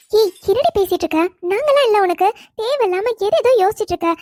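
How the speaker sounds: emphatic, lively chiding with swooping pitch; affectionate scolding. Acted. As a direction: cut in firmly to reassure a friend. Friend chides her crying companion. (அன்பாக அதட்டி)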